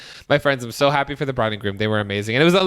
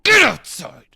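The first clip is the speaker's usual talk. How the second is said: shouted, louder and higher; retold shout; 6 semitones higher, 5 dB louder, slower than usual. Bride shouting at him to go outside, loud shout. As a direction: bark it at him sharply. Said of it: "she goes".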